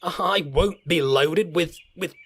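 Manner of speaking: slow, huffy protest; indignant. Acted. Thomas refusing to be loaded like a truck. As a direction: splutter with offended pride.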